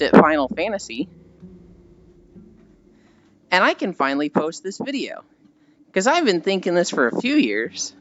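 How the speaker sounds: mildly mock the fed-up content creator; imitating YouTuber. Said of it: "And he's just like".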